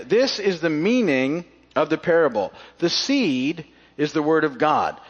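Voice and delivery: measured, emphatic public Bible reading; scripture reading. Real, not acted. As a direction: read the passage aloud deliberately, stretching the key phrases. Reads scripture aloud to congregation.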